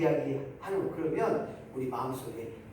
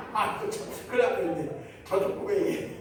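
normal talking voice

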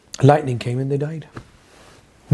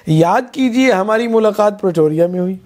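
mock reminder; 3 semitones higher than usual. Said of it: "I say".

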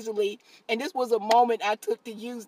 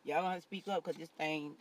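mock sadness; 6 semitones lower, 13 dB quieter than usual. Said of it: "that was an act".

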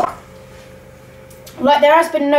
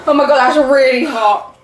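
laughing; 3 dB louder than usual. Real, not acted. Hot sauce, laughing.

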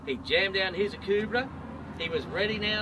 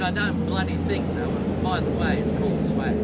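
louder, dug-in bushman; stubborn refusal; 7 dB louder than usual. Acted. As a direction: refuse her flat out, loud and firm. Bill refuses to give bag.

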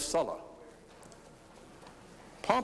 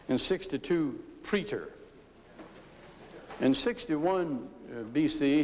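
formal speech. Real, not acted. Delivers prepared Senate history speech.

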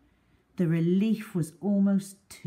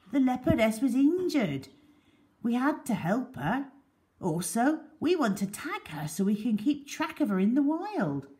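bearded man's voice; 8 semitones higher than usual. Acted. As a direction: point out the signs, a bit gruff and firm. Bearded man explains rescue.

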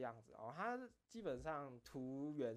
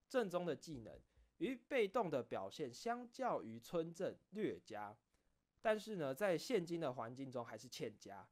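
recitation contest reading. Shown as a demonstration. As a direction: read it like a formal speech competition, weighting each phrase. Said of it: "之前朗读比赛的时候是怎么念".

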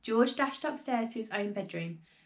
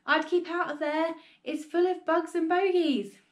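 raised-pitch warning; calling out; 6 semitones higher than usual. A narrator's reading. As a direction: warn her from the floor below. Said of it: "George called out".

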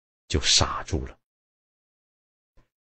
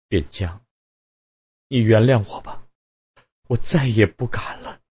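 crying plea; 5 semitones higher than usual. A narrator's reading. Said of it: "突然大哭了起来".

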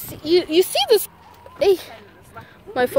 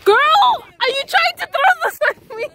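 surprised; 9 semitones higher than usual. Real, not acted. Object thrown at her.

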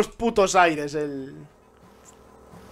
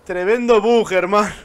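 punchy, louder repeat; louder exclamation; 2 semitones higher, 10 dB louder than usual. Real, not acted. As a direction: hit it harder the second time.

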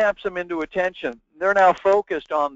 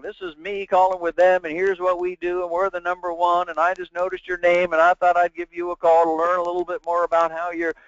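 run-on, evenly pitched droning pitch; mock sales monologue. Imitating a sales rep vomiting their presentation, monotonous run-on. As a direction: rattle on without a break, imitating a tiresome rep. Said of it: "They go into a monologue".

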